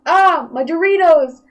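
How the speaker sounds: mock wail. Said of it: "and I was like".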